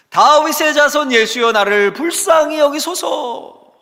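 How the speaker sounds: high, drawn-out shout for mercy; loud crying out. Acted. Blind beggar calls out to Jesus for mercy, loud pleading shout. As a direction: cry out slowly at full voice. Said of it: "크게 소리질러 외칩니다".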